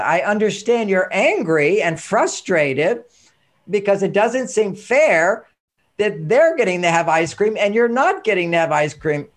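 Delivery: slow, calm acknowledging tone; dad calming his upset daughter, slow and gentle; calm validating. Shown as a demonstration. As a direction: soothe her by naming the feeling slowly. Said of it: "I wanna role model this one".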